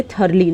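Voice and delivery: thoroughly said as "THUR-lee"; correct pronunciation. Shown as a demonstration. Teacher models the word for students, thoroughly correctly as "THUR-lee". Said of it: "इसको thoroughly बोलेंगे".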